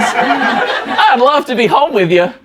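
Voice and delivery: put-on southern accent. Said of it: "guy with the southern accent".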